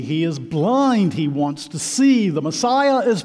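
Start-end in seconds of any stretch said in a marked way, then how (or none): none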